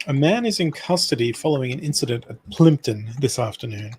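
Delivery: steady newsreader delivery of a crime report; news read. Acted. Reading a news article aloud to his friend, newsreader style. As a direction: read it out like a radio bulletin.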